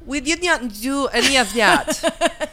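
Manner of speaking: put-on slow, heavy Russian accent. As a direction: speak like a sultry Russian spy, slowly. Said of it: "Are you a sultry, sexy Russian".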